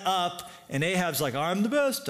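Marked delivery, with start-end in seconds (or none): 1.4-2.1 high, hammed-up gloating; mock boasting. King gloats before the arrow hits, mock boastful. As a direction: crow it like a silly king.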